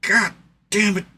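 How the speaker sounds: slow, wailing half-sob of defeat; mock anguished groan. Retelling his reaction to the offering for chat, slow mock wail. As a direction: drag it out like a hammed-up lament. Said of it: "and I was like".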